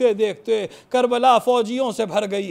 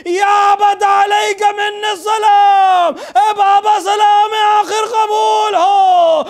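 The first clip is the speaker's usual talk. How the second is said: higher and louder, building to a wailing cry; impassioned majlis preaching; 4 semitones higher, 5 dB louder than usual. Acted. Preacher crying out Karbala's tragedy to mourners, building to a wailing climax. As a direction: preach it at full force, rising to lament.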